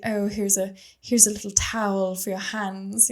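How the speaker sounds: lightly put-on British accent. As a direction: offer it with a touch of British. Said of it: "I'm speaking in a British accent".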